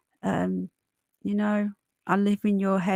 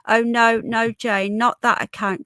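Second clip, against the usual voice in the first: urgent correction; 3 semitones higher, 6 dB louder than usual. Real, not acted. Correcting a chat member urgently.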